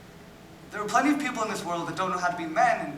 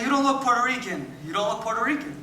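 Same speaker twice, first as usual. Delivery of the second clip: higher, louder mimicking of other people; imitating others' insistence; 5 semitones higher, 3 dB louder than usual. The speaker mimics people doubting his background, imitated insistence. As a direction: echo a tired, insistent objection. Retelling what people keep telling him.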